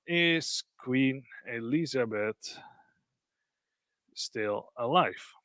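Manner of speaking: slow, spaced-out question; typing aloud. Real, not acted. Presenter typing a question to the bot, slow and drawn out. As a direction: say it slowly as you type.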